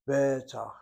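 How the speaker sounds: Betach, stress on the last syllable, tach; teacher modeling Betach, final syllable stressed; demonstrated pronunciation. Shown as a demonstration. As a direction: say Betach slowly, landing on the end. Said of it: "Notice how I pronounce that word".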